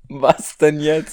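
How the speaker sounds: just choked, slow and strained; words right after choking; choking on a drink. Real, not acted. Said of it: "ich hab mich verschluckt".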